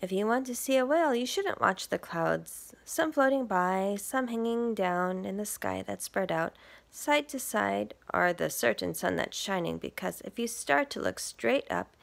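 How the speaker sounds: lively picture-book read; reading to children. Acted. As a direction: read it to little listeners. Reads picture book aloud.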